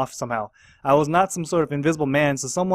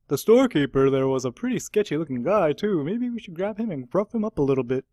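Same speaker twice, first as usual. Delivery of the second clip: policeman voice. Acted. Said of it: "terrible voice acting".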